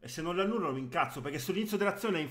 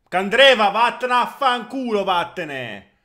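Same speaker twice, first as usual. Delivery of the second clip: loud, high furious yelling; explosive italian cursing; 5 semitones higher, 12 dB louder than usual. Real, not acted. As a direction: tell the player off. Cursing own player.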